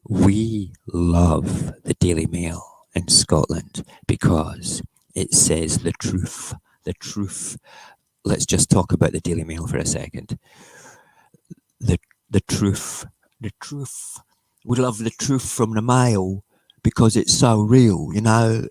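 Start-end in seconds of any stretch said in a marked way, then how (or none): 0.1-7.6 slow, drawn-out put-on reverence; mock adoration. Scottish streamer sarcastically praising the Daily Mail, mock adoration. 11.8-14.2 mock reverence. Sarcastic repeat of the paper's "truth.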